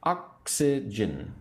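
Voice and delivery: "Oxygen" slowly, each syllable separated; slow, divided model of "Oxygen" to repeat. Shown as a demonstration. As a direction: sound out "Oxygen" piece by piece for learners. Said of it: "say the word with me".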